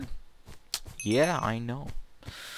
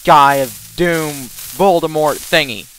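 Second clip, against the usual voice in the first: lightly voiced gloating villain, a bit louder; mock evil wizard bragging; villain boast; 3 semitones higher, 6 dB louder than usual. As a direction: puff up like a cartoon bad guy. Voicing the enemy wand mage.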